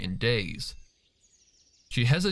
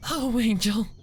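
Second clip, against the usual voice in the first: much higher, a sobbing joyful wail; tearful cry; 12 semitones higher, 3 dB louder than usual. Acted. Fluttershy hugs Sweetie Belle tight, crying through tears. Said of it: "she cried".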